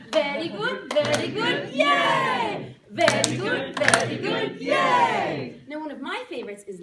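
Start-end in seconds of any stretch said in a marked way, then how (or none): 0.1-5.6 very good shouted louder, yay high and shouted; loud cheer. Shown as a demonstration. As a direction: cheer the group on loudly. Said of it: "leading cheer".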